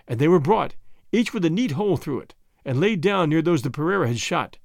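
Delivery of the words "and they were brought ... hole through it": usual speaking voice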